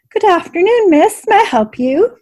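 prim, high, crisp innkeeper voice; each word neat and correct; proper and precise. Acted. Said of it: "her accent proper and precise".

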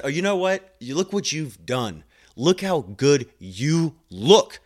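proud pep talk, stretching the compliment; acted-out delighted praise; excited praise. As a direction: marvel at the patient's progress, drawing words out. Acting out praise for the patient.

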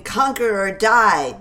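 slow, loud war chant; battle cry. Acted. Redcoats charging, slow loud war cry.

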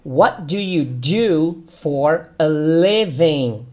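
"What do you do for a living?" very slow; slow teacher model; model question. Shown as a demonstration. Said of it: "você pode fazer a seguinte pergunta".

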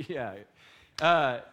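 normal talking voice

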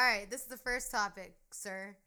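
game show host announcement. Acted. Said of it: "like it's a game show".

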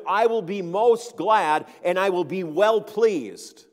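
fervent prayer voice. Retold or imitated. Preacher voices Paul's earnest surrender to the Lord. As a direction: voice Paul gladly yielding to God. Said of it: "Paul is saying here".

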